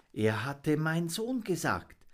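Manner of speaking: little monkey moved by the raven's words; wondering monkey. Acted. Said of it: "dachte er".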